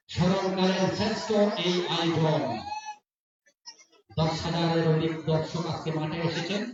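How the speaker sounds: rapid live play-by-play; frantic football commentary. Real, not acted. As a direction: call the match as it unfolds.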